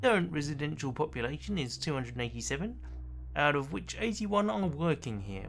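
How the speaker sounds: polished, upbeat tour guide; a lightly voiced cheerful guide. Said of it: "I'm enjoying the tour guide's voice".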